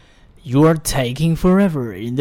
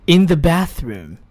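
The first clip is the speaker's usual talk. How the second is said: slow model reading. Shown as a demonstration. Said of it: "跟我来读这句话".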